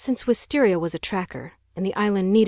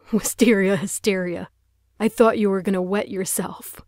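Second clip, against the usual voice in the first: sneering; 3 dB louder than usual. Acted. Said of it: "Gareth sneered".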